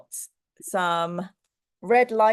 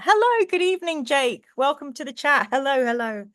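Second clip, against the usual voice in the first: bright greeting; 5 semitones higher than usual. Real, not acted. Greeting chat viewers.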